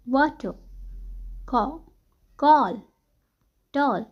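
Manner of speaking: वाटर, call, tall with an "aw" vowel. Shown as a demonstration. Teacher showing words where A becomes O, rounded vowel. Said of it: "A becomes O".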